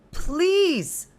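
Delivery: high, loud crying plea; tearful cry. Acted. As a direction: cry the word out through tears. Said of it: "I cried, tears streaking hot".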